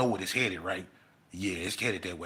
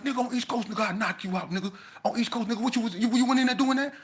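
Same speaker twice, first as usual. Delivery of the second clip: laughing threat; 14 semitones higher, 5 dB louder, faster than usual. Retold or imitated. Cali boy mocking and threatening.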